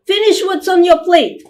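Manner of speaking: older sister playing mum at the dinner table; child's voice. Older girl nagging little sister to eat, childlike. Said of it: "I will change my voice to make it sound like a children's voice".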